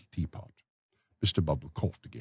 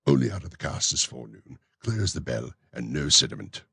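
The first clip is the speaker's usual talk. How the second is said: raised, fussy official's voice; pompous beadle; 2 semitones lower than usual. Acted. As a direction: play the self-important beadle. Bumble shows wine.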